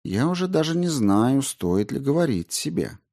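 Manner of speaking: high, mocking doubt; utmost sarcasm. A narrator's reading. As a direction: pretend to hesitate, sarcastically. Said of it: "со всем возможным сарказмом".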